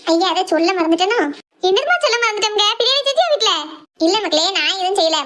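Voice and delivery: normal talking voice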